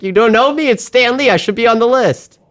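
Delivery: put-on high old man Stan Lee; chirpy high cameo old man. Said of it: "And he's like".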